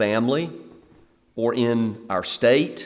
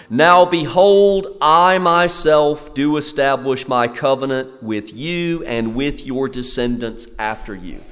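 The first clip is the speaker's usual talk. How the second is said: preacher booming "Now behold" as God's announcement; proclaiming God's words. Acted. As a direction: announce it like God declaring a covenant. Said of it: "he makes an announcement".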